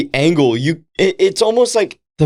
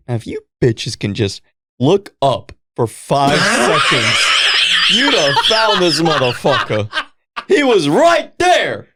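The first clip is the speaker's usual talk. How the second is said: put-on laughing, slowed shout at the girls; half-laughing, yell at the movie characters; mock yelling at screen; 4 semitones lower than usual. Watching the movie, mock yelling at the oblivious girls.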